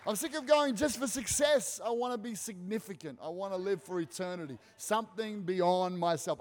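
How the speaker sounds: high, loud, impassioned cry of total surrender; fervent surrender. Retold or imitated. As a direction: shout it out like someone finally giving everything to God. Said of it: "someone goes".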